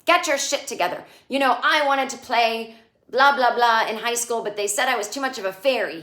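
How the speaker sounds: half-acted scolding, rushed and pushy; retold yell. Anthony scolding Rock to get it together, mock yell. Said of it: "Anthony yells at Rock".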